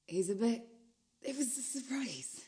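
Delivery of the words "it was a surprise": soft whispered aside. Acted. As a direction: hush the words.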